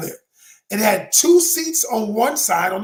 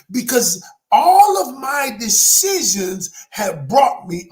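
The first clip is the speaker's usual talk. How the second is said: near tears; 4 dB louder, slower than usual. Real, not acted. Admitting his own fault, emotional.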